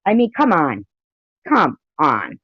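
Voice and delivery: high, exasperated disbelief; exasperated retort. Real, not acted. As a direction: talk back as if to a fool. Exasperated retort to played clip.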